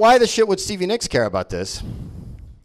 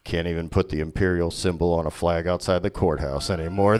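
put-on lower, grumbling bigoted old guy; grumpy Vader; 11 semitones lower, 5 dB quieter than usual. Darth Vader complaining about Alderaan, low and grumbling.

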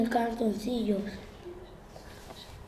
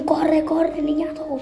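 being chased; 5 semitones higher than usual. Acted. Taunting whisper to himself.

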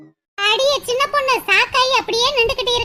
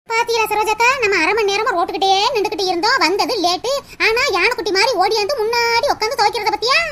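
lower, mocking gossip about the girl; 5 semitones lower than usual. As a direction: sneer at her behind her back in a lower voice.

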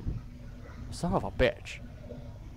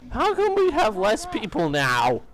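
high, slow and puzzled; confused surprise; 9 semitones higher, 4 dB louder than usual. Real, not acted. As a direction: ask in baffled disbelief. Confused at fewer players.

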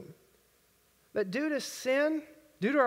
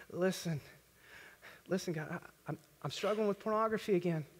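much softer, halting; hushed confession; 6 semitones lower, 8 dB quieter than usual. Retold or imitated. Believer quietly confessing a struggle to God. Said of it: "come and be like".

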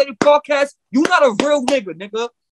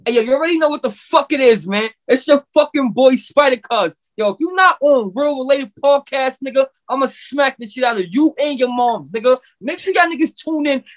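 hype shout-out. Acted. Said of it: "Spyder Cuz, say what's up".

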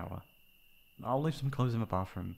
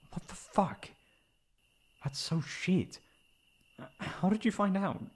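higher, louder indignant outburst; shocked anger; 10 semitones higher, 4 dB louder than usual. Acted. Friend reacts to the betrayal, indignant and loud. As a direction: spit out disgust at the ex. Outraged at cruel bet.

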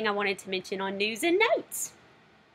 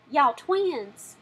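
Y'all Twins drawn out in a Southern accent, higher; 5 semitones higher, 3 dB louder than usual. Shown as a demonstration. Showing viewers how to say the title in a Southern accent. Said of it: "you have to say it with a Southern accent".

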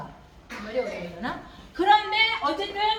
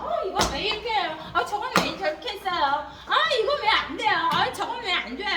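mock whine of why questions; a complainer moaning about everything; whiny complaining.

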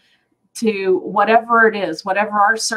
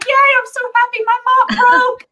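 much higher, louder, laughing through it; gleeful retelling; 6 dB louder than usual. Retold or imitated. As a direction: squeal it out, laughing at yourself. Retelling joy to husband.

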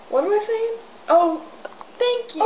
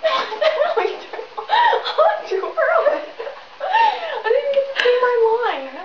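laughing protest; 9 semitones higher than usual. Real, not acted. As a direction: shout through the laughter. Laughing protest after prank.

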